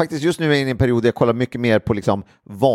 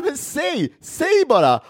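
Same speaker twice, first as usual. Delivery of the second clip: mock pushy demand; slower than usual. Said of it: "Och de bara".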